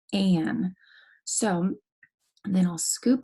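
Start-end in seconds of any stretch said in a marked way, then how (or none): 0.1-0.7 "an" as one glued sound. Shown as a demonstration. Teacher demonstrating the letters A N, glued sound. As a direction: run the vowel of "an" right into its n. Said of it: "making the glued sound".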